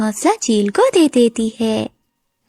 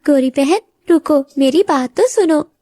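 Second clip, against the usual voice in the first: higher-pitched urgent plea to wait; calling after her; 5 semitones higher, 3 dB louder than usual. Acted. Bird calls after her upset friend, pleading. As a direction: call out to stop a friend.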